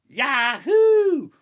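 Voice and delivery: high, loud joyous whoop; thrilled yell. Retold or imitated. Riding the drop, whooping with joy.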